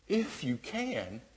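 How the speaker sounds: slow, dry sarcastic echo. Retold or imitated. Jesus echoing the father's words back, slow and sarcastic. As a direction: drag it out, mocking the doubt. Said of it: "a sarcastic humor".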